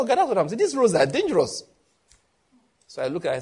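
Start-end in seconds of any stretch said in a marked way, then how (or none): 0.0-1.6 playful imitation of a worried young woman; mock alarmed warning. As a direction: imitate her rising alarm about the roads. Young woman warns about dangerous roads.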